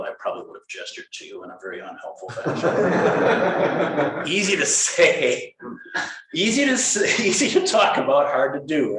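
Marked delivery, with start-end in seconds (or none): 2.3-9.0 laughing through the words at herself. Real, not acted. Teacher laughs at her own easy advice, chuckling. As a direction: chuckle it out, amused at the irony.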